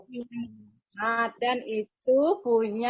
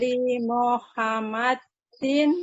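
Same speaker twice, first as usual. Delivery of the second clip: reading slowly; slower than usual. Real, not acted. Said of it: "Pelan-pelan, yuk".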